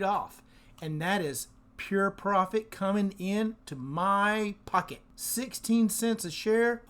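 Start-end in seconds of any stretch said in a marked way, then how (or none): 5.1-6.8 higher, thrilled question; a little excited. Real, not acted. Host thrilled at profit per share, excited. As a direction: lift the amount with delight. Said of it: "I'm getting a little excited".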